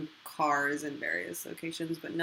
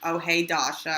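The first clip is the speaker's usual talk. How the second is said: Mike Racine; 5 dB louder than usual. Retold or imitated. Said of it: "You wanna hear my Racine impression?".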